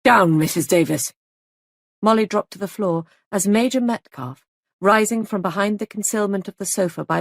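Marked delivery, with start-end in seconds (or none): 0.0-1.1 sudden loud barked command; loud urgent warning shout. Acted. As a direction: shout it out to make her drop. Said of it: "A voice shouted".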